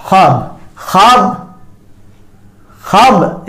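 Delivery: ख्वाब with a light trace of v after kh; faint v sound. Shown as a demonstration. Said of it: "जैसे हम पढ़ेंगे इसे". (ख्वाब में हल्की सी व की आवाज़)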